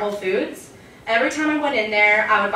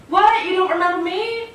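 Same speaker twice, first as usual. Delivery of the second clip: mock offended surprise; 9 semitones higher than usual. Stranger texting the comedian, high indignant surprise.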